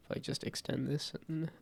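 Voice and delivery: stuffy nose from a cold; congested. Real, not acted. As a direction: talk through a blocked nose. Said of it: "I'm also still congested from a cold".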